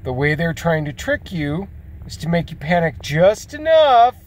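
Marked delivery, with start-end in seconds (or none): 3.5-4.1 enough punched high and loud; stress on enough. Real, not acted. Warning viewers how media makes them panic, enough punched. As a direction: hit the word enough hard.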